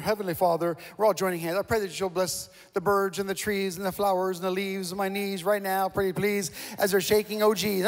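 lightly mocking a singsong memorized prayer; flowery rote prayer. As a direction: rattle it off like a canned rote prayer. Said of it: "I'm praying this flowery prayer".

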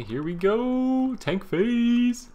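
very high, drawn-out sing-out; mock-excited callout. Streamer announcing the tank phase to party, high mock-excited callout. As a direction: stretch it out high like a playful cheer.

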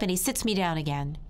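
ordinary delivery

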